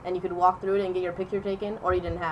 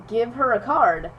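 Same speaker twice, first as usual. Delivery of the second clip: higher, slow teacher's order; retold teacher's instruction; 4 semitones higher, 5 dB louder, slower than usual. Teacher to a kid with two cards, retold instruction. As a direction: lightly imitate a teacher giving instructions.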